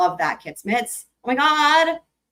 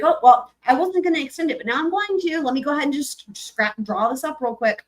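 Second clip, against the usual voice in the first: mocking the judge; 5 semitones higher than usual. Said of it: "and then she's like".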